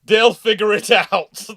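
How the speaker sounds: They'll figure it out, slow and unbothered; slow laid-back drawl. Retold or imitated. Repeating the Australian reply, slow and unbothered. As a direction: drawl it, casual and carefree. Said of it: "first experience of operating with Australians".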